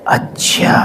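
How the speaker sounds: soft, breathless whisper of a distant voice; hushed whisper from afar; whispered divine voice. Retold or imitated. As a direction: breathe it out like a voice from above. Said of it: "एक आवाज़ आई".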